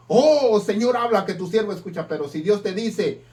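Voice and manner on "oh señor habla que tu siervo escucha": loud "Oh", then rushed, fast eager plea; hammed-up greedy enthusiasm; eager prayer. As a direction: jump at the chance of a million pesos. Eager prayer hoping for money.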